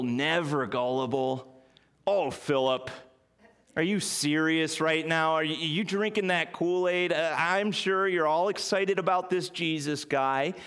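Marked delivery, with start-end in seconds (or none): 2.1-10.5 put-on skeptical New England accent scoffing at a friend; new england yankee. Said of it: "He sounds like a New Englander to me".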